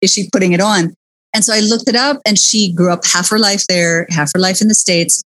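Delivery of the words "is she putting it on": mock bafflement. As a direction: imitate a baffled viewer, pitch jumping up. Retelling viewers' baffled reaction.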